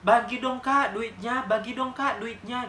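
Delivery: mock angry beggar demanding money. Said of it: "ekspresi dia kayak marah".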